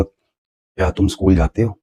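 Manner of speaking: slow, stress on स्कूल with a rising question tune; teacher's slow question demo; questioning intonation. Shown as a demonstration. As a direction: ask क्या तुम स्कूल जाते हो? slowly, leaning on स्कूल. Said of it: "मैंने एक ही sentence को intonation के साथ".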